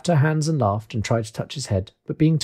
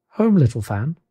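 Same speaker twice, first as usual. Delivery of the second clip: rising, hopeful question; questioning boy; 3 semitones higher, 4 dB louder than usual. Acted. Boy answers his little sister's news, wondering. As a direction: echo it with mild disbelief. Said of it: "returned the boy".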